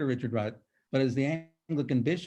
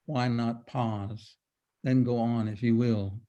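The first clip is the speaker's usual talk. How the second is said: slow, measured verse with pauses between phrases; poem reading. Acted. Reciting a favourite Korean sijo in translation, measured poem reading. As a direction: linger over each image, slowly.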